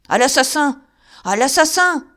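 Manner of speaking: loud, high terrified cry; terrified man shouting murder. Acted. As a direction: scream for help. Crying murder in terror.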